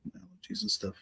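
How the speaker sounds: congested, slightly raspy voice. Real, not acted. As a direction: talk through allergy congestion, raspy. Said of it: "my voice may sound a little raspy".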